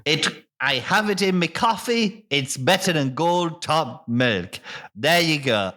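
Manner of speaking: lightly voiced rustic farmer; a hint of a vaguely Irish farmer, unhurried; Farmer Buggerton. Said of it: "why is he Irish?".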